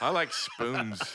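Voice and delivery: slow mock little-kid voice; four-year-old. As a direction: imitate a small child sharing a random thought. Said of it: "doing a podcast with a four-year-old".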